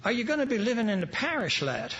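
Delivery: a hint of an Irish brogue. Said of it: "in his Irish brogue says".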